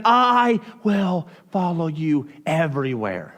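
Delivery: fawning follower. Retold or imitated. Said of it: "he's like".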